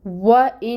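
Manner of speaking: وَإِنَّهُ with the nasal ghunnah held on the doubled noon; tajweed demo. Shown as a demonstration. Teacher showing students the ghunnah, nasal held noon. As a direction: stretch the نّ of وَإِنَّهُ through the nose for two counts. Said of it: "نون مشدد پہ غنہ کرنا ہے".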